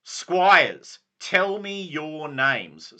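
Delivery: lightly voiced knightly lord; Sir Brastius. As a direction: proclaim like a ceremonial knight. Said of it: "this is Sir Brastius saying this".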